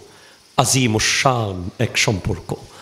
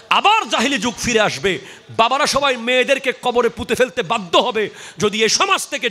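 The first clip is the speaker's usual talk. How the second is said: raised-pitch, urgent sermon warning; full-force preaching; 9 semitones higher than usual. Real, not acted. Preacher warning society against dowry, full-force preaching. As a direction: warn the congregation forcefully.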